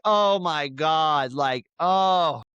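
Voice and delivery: high, slow mock-whining fan; whiny fan. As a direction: drag it out like a heartbroken fan, hammed up. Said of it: "everyone's like".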